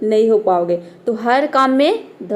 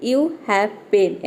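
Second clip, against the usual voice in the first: slow example sentence; 2 semitones lower, much slower than usual. Shown as a demonstration. Teacher slowly modelling the question about the pen. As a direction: draw out "you have pain" gently. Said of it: "यानी कि तुम्हारे पास".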